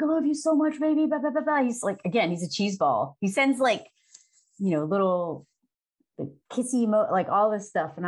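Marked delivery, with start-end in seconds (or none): 0.0-1.6 mock sappy husband. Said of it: "sends me messages like".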